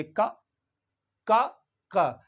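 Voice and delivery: का as a short, quick "kuh"; का said briefly, each one on its own; quick short vowel. Shown as a demonstration. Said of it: "ये ए को जल्दी पढ़ेंगे".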